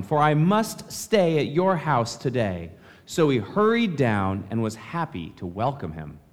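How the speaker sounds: measured, formal reading of the Gospel; scripture reading. Acted. Pastor reading the Gospel to the congregation, formal reading. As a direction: read the lesson out to the congregation. Reads the Gospel lesson aloud.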